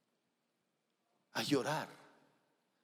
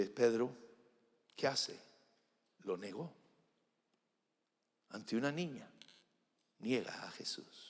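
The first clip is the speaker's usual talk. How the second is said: whisper; 3 semitones lower, 5 dB quieter than usual. Acted. Hushed telling of Peter's denial.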